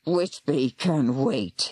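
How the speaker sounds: slow, lowish menacing growl. Acted. Warlock threatening the old lady, slow growl. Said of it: "he growled".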